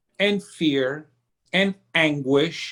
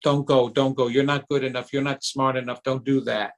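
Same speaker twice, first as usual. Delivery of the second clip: put-on inner child pleading; 6 semitones lower, faster than usual. Little kid inside stopping a promotion, low hushed pleading. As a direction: hold yourself back in a hushed lower voice. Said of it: "your little kid is saying".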